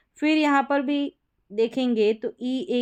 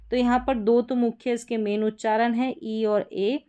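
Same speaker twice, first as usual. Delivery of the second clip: whisper. Real, not acted. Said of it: "whisper measured".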